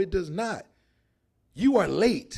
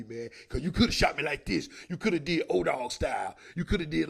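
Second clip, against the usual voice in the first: mock-thankful wounded man, ending in a whisper; lightly voiced victim thanking the shooter; grateful shot victim; 2 semitones lower than usual. Comic playing a shot man thanking his shooter. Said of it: "They gonna say".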